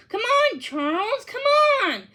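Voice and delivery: high, pushy urging to a friend; urgent nudge. A narrator's reading. Sammy nudging Charles to say his line, high and urgent. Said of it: "Sammy said".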